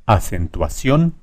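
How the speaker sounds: slow acentuación landing on CIÓN; stress on last syllable. Shown as a demonstration. Teacher sounding out the tonic syllable, slow, stressed CIÓN in acentuación. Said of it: "ción es la más fuerte".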